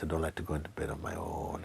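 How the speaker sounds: whispered, embarrassed admission; sheepish whisper. Retold or imitated. Lonely friend confessing to the teacher, whispering. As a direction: confide it under your breath.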